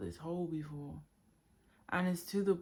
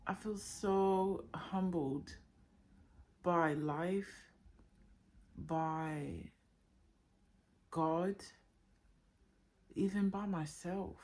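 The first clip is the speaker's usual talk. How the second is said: voiced, slow and tender; sincere humbled reflection. Real, not acted. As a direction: let it land slowly, full voice. Overwhelmed, repeats phrase twice.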